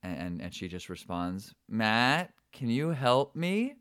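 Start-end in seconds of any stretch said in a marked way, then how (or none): 1.7-3.8 put-on high, slow little girl's call from behind a door; muffled voice. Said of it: "sort of in this muffled voice".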